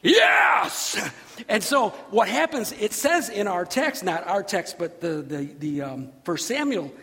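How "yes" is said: loud, drawn-out acted cheer; angels cheering. Angels watching a step of faith, cheering. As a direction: explode in a celebrating yell. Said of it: "the angels were like".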